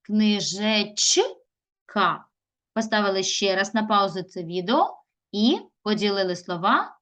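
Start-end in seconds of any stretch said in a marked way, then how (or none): 0.0-1.2 "Книжечка" slowly as Книжеч, long pause, ка; teacher dividing "Книжечка" into Книжеч... ка; another word split. Shown as a demonstration. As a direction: break "Книжечка" just before the final ка. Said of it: "Або ще інакше".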